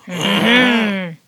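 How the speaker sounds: loud, stretched mock French greeting; hammed-up French hello; attempted French accent. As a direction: draw it out in fake French. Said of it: "I'll try and do French".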